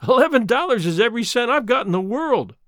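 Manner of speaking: forced laugh. Acted. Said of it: "she did her best to make it a laugh".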